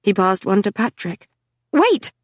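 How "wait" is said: a high, sharp cry; sudden shout. A narrator's reading. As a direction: stop them with one word. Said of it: "Was I shouting?".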